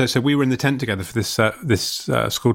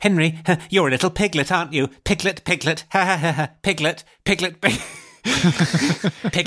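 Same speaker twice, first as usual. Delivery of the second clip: put-on higher, teasing voice of a freaky child; haunted jester; 4 semitones higher than usual. Freaky boy taunting his tentmate, lightly voiced haunted jester. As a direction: repeat it like a joke that won't stop, with fake ha-has. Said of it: "He was like a haunted jester".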